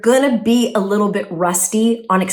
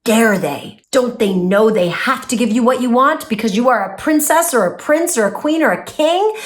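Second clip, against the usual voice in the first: mock indignation. The ego voice protesting a refusal, mock haughty outrage. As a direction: play the offended royal ego. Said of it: "another voice that tries to hijack you by saying".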